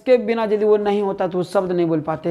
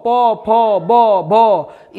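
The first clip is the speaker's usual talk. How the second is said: very slow consonant demo; 2 semitones higher, much slower than usual. Shown as a demonstration. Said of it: "फ का उच्चारण देखिए".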